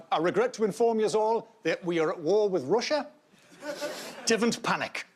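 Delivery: put-on a light Geordie accent for a grave national announcement; hint of Geordie, deadpan. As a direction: announce war calmly in a mild Geordie accent. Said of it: "The ideal accent would have been a Geordie accent".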